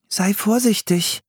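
put-on high-pitched girl's warning; cautioning child character. A narrator's reading. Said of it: "mahnte Anne".

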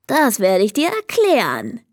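friendly. Acted. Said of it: "sagte der Zahnputz-Kobold freundlich".

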